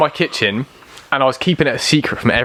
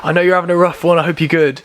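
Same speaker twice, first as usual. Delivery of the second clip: cheery birthday message; 6 semitones higher than usual. Retold or imitated. Imagined short Cameo message.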